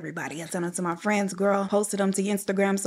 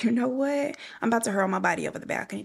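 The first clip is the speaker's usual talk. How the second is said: mock despair; 3 semitones higher, faster than usual. Melodramatic self-quote, whispered then rushed.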